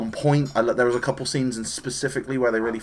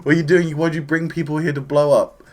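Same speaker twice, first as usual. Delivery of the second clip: louder, higher panicked yelling; freaking out; 4 semitones higher, 5 dB louder than usual. Retold or imitated. Characters on King Kai's planet panicking, loud high yells. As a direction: shout it like everyone is about to explode. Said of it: "they're freaking out".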